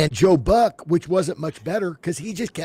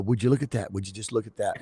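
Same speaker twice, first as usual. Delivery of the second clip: impression; 4 semitones lower, 6 dB quieter, faster than usual. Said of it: "what's the guy that does".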